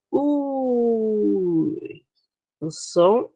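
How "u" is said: a long u, fading away; teacher shows the falling diphthong on u; drawn-out u fading. Shown as a demonstration. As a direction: hold the u and let it fade. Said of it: "o U era forte".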